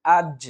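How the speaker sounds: আজ with a bounced release on the final j; light qalqalah push. Shown as a demonstration. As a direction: kick lightly off the জ ending আজ. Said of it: "হালকা ধাক্কা দিয়ে".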